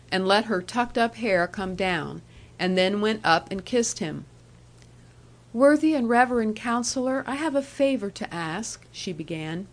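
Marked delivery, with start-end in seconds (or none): 5.5-8.8 a hint of a sweet young woman, higher; coaxing young woman, lightly voiced. Annie pleads with Counsellor.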